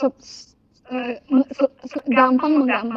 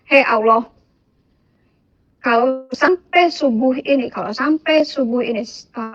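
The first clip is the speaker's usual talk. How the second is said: retold annoyance. Retelling a fed-up ultimatum to Allah before dawn, mildly annoyed. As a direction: press the ultimatum with contained irritation. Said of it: "dengan kesel nih, saya kesel banget".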